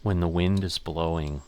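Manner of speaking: slow, hushed golf commentator; drawn-out dramatic broadcast voice; golf announcer. Pretend. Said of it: "Do I sound like a golf announcer?".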